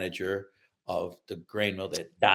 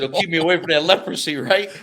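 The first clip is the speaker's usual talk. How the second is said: put-on eager kid question; 8 semitones higher, 7 dB louder than usual. Child asking hopefully.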